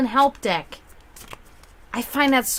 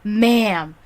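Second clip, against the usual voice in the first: affronted echo; 3 dB louder than usual. Retold or imitated. Applicant echoing the young host's word, mildly affronted. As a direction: repeat it back, mildly affronted. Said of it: "and I'm like".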